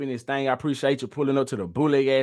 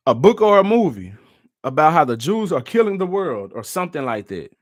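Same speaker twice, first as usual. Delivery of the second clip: incredulous; 5 dB louder than usual. Real, not acted. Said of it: "incredulous repeat".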